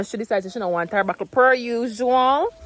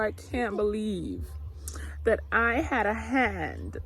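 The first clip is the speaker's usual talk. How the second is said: emotional; 6 dB quieter, slower than usual. Real, not acted. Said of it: "I don't wanna get emotional".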